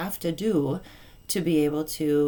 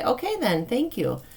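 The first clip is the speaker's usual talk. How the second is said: kind, not sarcastic; 6 semitones higher than usual. Shown as a demonstration. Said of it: "you don't say it sarcastically".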